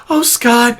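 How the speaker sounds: high, airy, sanctimonious gaslighter; breathy pious voice. Retold or imitated. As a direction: coo it down at him piously. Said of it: "to the breathy voice".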